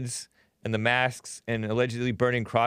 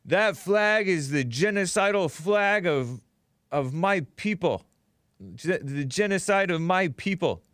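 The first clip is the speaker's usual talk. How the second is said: mock accuser; 4 semitones higher than usual. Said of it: "he points to the American flag saying".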